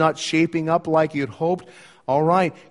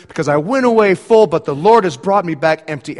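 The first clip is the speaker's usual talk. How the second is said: bitter Naomi; 6 dB louder than usual. Acted. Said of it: "she's saying to her friends".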